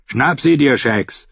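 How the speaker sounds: lightly voiced fighter giving an order; urging fighter. A narrator's reading. Timion to his companion mid-fight, urging him on.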